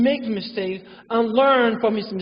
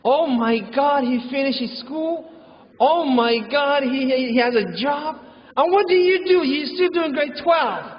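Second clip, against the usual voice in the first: nagging parent; 3 semitones higher than usual. Retold or imitated. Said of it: "they say".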